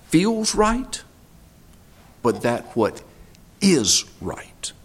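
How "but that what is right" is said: hushed whisper. Acted. Hushed contrast in sermon.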